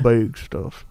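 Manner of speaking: Southern-accented emphasis; deep Southern accent. Real, not acted. Host stressing the plans, deep Southern accent. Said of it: "that deep Southern accent".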